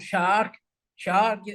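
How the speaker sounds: "Shark" lifted at the end, like a question; rising intonation. Shown as a demonstration. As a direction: let "Shark" slide upward in pitch. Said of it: "with raising intonation, of course".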